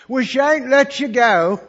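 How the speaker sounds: slow, loud, high insistent vow; loud declaration. Retold or imitated. Lady announcing to the missionaries, loud and slow. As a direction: plead firmly so they stay.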